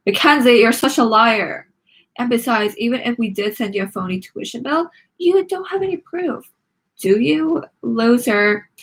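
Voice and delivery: sneering, singsong taunt; mocking taunt. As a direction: rub it in. Mackenzie taunting back.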